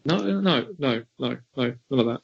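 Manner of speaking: put-on generic American accent; hammed-up American voice; mock American accent. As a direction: improvise as a generic American, stumbling. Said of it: "What American accent is that".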